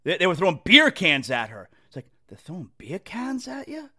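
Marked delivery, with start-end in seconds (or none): 2.3-3.9 bad Boston accent, lightly done; mock Boston accent. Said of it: "A terrible Boston accent that I'm doing".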